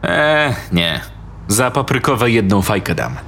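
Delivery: put-on scornful teen girl haggling; scornful sister. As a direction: turn the offer down with a sneer. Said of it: "Skrzywiła się".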